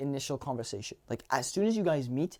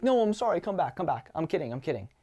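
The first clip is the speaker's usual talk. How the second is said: playful plea. Acted. Man calling after the girl walking away, playful plea. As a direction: call her back with a grin in the voice. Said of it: "it's okay to be like".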